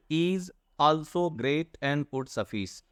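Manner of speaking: drawn out very slowly, word by word; teacher slowly reading the poem line aloud. Shown as a demonstration. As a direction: read the line slowly to show its beat.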